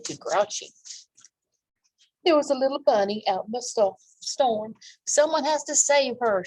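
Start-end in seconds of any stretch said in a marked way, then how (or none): 2.2-6.4 urgent raised call to save the bunny; shouted. Acted. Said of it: "shouted Thistle".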